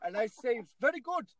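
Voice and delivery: a badly faked Indian accent, rising to a shout; mock Indian accent. Host mimics a factory boss in a faked Indian accent. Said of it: "You sound, you sound Indian".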